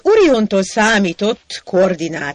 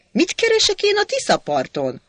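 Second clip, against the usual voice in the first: much higher, outraged question; beside himself; 13 semitones higher than usual. Acted. Sajó beside himself with Hacsek, much higher. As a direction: shriek it in disbelief.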